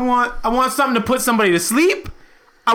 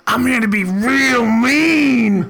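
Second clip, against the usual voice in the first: slow menacing drawl; 3 semitones higher, much slower than usual. Acted. Player answers in character.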